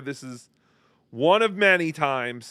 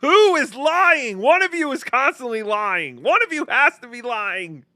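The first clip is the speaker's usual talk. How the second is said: raised-voice, hammed-up accusation; mock accusation; 7 semitones higher than usual. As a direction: call them out like a theatrical inquisitor. Mock interrogation of the arguers.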